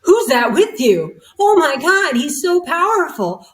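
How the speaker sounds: high, loud, astonished gush; a medium thrilled by a powerful spirit; excited medium. Retold or imitated. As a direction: gasp it out, overwhelmed by what she senses. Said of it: "she's just going crazy".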